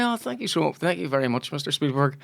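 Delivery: soft retold thanks with a hint of English accent. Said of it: "you did have a English accent".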